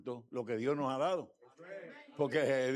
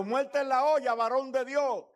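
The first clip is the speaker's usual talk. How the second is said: higher, louder mock shout of alarm; mimicked outcry; 8 semitones higher, 4 dB louder than usual. Church people crying out to the pastor, a mock loud alarm. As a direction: cry it out like a startled crowd. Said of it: "la gente esté gritando".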